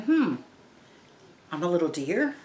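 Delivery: a puzzled questioning echo; puzzled girl. Pretend. Teacher voicing the confused girl, in a questioning tone. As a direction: rise on deer as if confused. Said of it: "the little girl's thinking".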